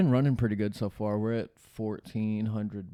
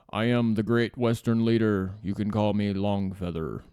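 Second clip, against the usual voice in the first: mock chief voice; 5 dB louder than usual. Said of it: "That's how they talk".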